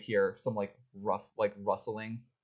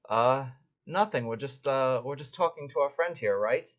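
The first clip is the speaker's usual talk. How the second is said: nervous thugs; 4 semitones higher, 4 dB louder than usual. Acted. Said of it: "they're like".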